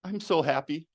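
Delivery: happy words said flat and deadpan; insincere happiness. Shown as a demonstration. Demo of mismatched emotion, happy words said flatly. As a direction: say it like you don't mean it. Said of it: "didn't match up with the words".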